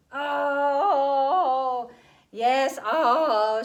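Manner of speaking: impatient. A narrator's reading. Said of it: "she said a bit impatiently".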